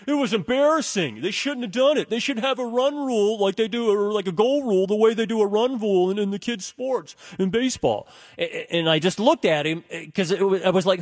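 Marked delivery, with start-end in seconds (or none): 0.1-8.1 high-pitched indignant rant, imitated; irate buddy. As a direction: mimic a friend's worked-up complaint, voice pitched up. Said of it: "He was yelling and starting to".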